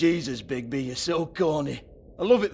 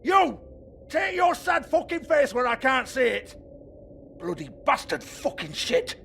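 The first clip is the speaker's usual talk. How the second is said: pained shout; 8 semitones higher than usual. Acted. Beaten by the sheriff, shouting in pain and rage. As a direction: yell it out through the hurt.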